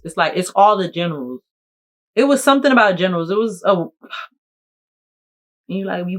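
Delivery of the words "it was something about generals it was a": louder, higher, fast correction; insistent correction. Real, not acted. Correcting herself about the concert tour name, insistent. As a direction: push the point quickly.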